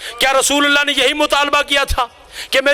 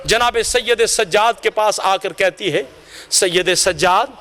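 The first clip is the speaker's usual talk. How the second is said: hushed grief; 6 semitones lower than usual. Acted. Preacher telling of the child's washing, low hushed grief. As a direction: drop low as the tragedy is revealed. Tragic climax of the washing story.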